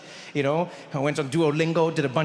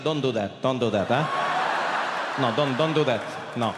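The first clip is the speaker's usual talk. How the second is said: low, firm, shaking head; stern dad; 5 semitones lower than usual. Retold or imitated. Dad telling his son to stop speaking German, low and firm. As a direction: lower and flat, shut it down.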